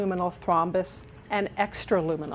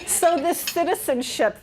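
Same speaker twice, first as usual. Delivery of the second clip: laughing; 7 semitones higher than usual. Real, not acted. Laughing into next topic.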